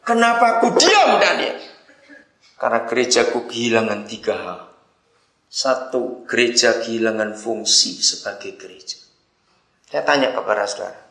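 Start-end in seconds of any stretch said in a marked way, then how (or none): 0.0-1.5 high-pitched rhetorical question as Jesus. Retold or imitated. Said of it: "Begini kata Tuhan Yesus". 2.6-9.0 low, measured answer as Jesus. Retold or imitated. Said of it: "Begini kata Tuhan Yesus".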